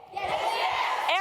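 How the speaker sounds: second "yes." punched up, rising; yes yes call. Shown as a demonstration. Speaker teaching the crowd the call, stress on the second yes. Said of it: "I want you to, without any hesitation, say".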